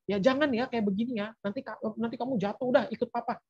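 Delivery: mildly coaxing grown-up voice; parent to small child. Acted. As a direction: talk down to a little child, in play. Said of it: "Kalau sama anak kecil kita bisa ya, posisinya dewasa".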